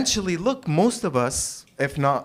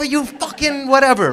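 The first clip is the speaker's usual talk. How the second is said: mock road rage; 9 semitones higher, 8 dB louder than usual. Angry driver cursing.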